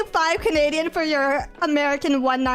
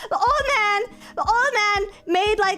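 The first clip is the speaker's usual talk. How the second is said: whiny complaint; 4 semitones higher than usual. Real, not acted. Whining about the loss.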